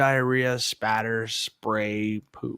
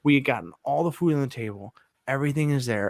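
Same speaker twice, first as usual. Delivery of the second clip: usual speaking voice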